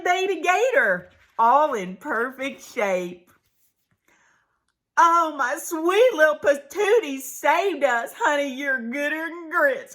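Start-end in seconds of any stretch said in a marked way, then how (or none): 5.0-9.9 gushing mama. Acted. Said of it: "cried Mama".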